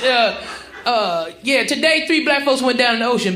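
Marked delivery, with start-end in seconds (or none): 1.4-3.3 mock newscaster. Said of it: "it'd be like this".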